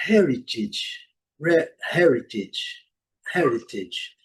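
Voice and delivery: "heritage" ending in short "idge". Shown as a demonstration. Teacher modelling a new word, "heritage" with A said as short i. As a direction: model "heritage" as "HER-i-tidge", first syllable strong. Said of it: "O A com som de".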